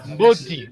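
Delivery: Mboti ending in an ee sound; regional I ending. Shown as a demonstration. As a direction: say Mboti with final I instead of E. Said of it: "ils disent Mboti". (Mboti, avec un I final)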